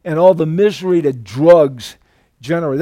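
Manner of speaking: a hint of the film sheriff's delivery; Tommy Lee Jones. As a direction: quote the sheriff with a light impression. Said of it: "I love the way he said".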